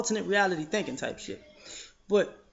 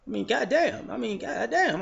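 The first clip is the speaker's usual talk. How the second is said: laughing disbelief; 4 semitones higher than usual. Real, not acted.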